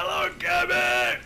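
high, slow delighted squeal; giddy cooing; excited squeal. Real, not acted. Gushing at his cat.

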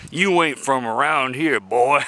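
teasing country-accent impression, barely put on; mock rural accent. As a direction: lightly play a suspicious small-town local with a country accent. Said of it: "they don't use that accent".

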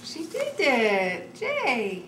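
drawn-out proud cheer; cheering praise. Real, not acted. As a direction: cheer her on, slow and proud. Mother cheering child's tracing.

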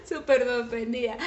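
amused, giggly remark; real chuckling while talking; laughing. Real, not acted. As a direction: laugh through the words. Amused at listener's surprise.

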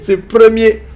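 mock African accent, broken-off song hook. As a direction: start the catchphrase in a put-on African accent. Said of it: "comment il fait l'accent africain". (accent africain imité)

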